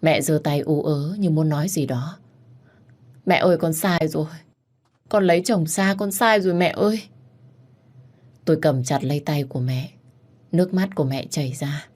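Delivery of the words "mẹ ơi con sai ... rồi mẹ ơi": raised, distressed pleading; acted anguish, mildly panicky; panicked regret. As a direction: confess to mother in rising distress. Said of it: "Tôi hoảng loạn".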